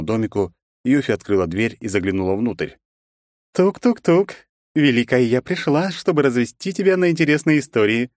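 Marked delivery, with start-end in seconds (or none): 3.5-8.1 high, purring teasing woman's voice; purring playfully. A narrator's reading. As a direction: purr it out, teasing him. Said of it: "промурлыкала она". (игривое мурлыканье, высоким голосом)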